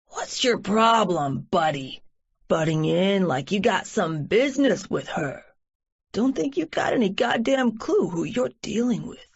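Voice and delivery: evil and furious. Acted. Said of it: "evil and furious".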